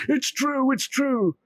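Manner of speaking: villager-grabbing insistence; desperate insisting. Acted. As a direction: make them believe you.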